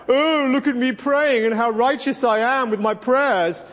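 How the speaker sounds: lightly put-on showy praying voice; a hint of pompous public prayer; mock self-righteous Pharisee. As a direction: imitate someone parading their own piety. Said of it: "he speaks about their public prayer".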